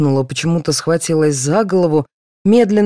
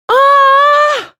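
very high, loud shrieking scream; terrified scream; 7 dB louder than usual. A narrator's reading. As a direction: scream in horror and run. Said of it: "закричала Нина". (очень высокий истошный визг)

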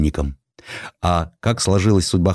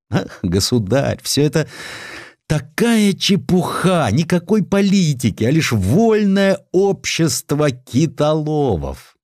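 admiral dismissing it to the tsar; 6 semitones higher than usual. Acted. Admiral reassures the emperor, lightly laughing it off.

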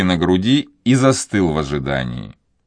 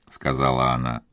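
usual speaking voice

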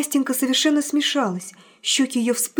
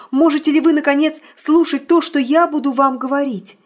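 urgent challenge; 4 semitones higher, 5 dB louder than usual. Acted. Pressing emotional challenge.

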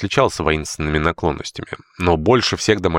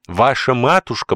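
higher, slow, bitterly sardonic; drawn out with a sneer; 7 semitones higher, 3 dB louder than usual. Acted. Housekeeper sneers at George's mother, bitter. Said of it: "с наигорчайшим сардоническим смешком".

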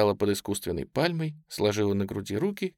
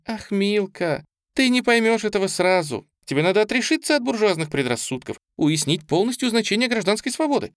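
lively preaching; 10 semitones higher than usual. A narrator's reading. Preaching free love to aunt.

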